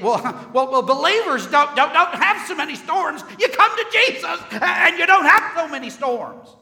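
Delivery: high, shouted mock-preacher voice; misguided believer. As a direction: parody a TV preacher's loud, gleeful promise.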